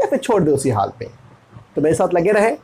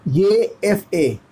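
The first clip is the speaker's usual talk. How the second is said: slow spelling; much slower than usual. Shown as a demonstration. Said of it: "क्या कहते हैं इसे?".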